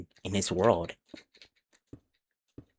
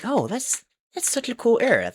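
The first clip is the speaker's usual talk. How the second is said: excited; 12 semitones higher than usual. Retold or imitated. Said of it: "And I'm like".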